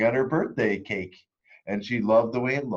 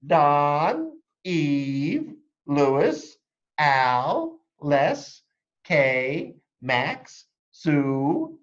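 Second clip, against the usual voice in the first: higher, louder roll call in a brisk teacher voice; 5 semitones higher, 5 dB louder, much slower than usual. Acted. Teacher Missus Chudd calling roll to the class, higher and louder. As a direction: read each name like a teacher at roll call. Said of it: "Missus Chudd".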